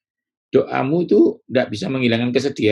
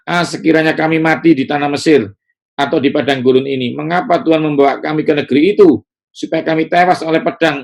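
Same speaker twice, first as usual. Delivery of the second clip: raised, ringing Bible reading; scripture reading; 4 semitones higher than usual. Acted. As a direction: read the passage out to the congregation. Reads scripture aloud.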